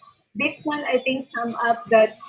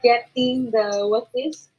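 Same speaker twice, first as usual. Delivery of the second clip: hoarse voice. Real, not acted. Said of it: "I'm very sorry for my voice right now".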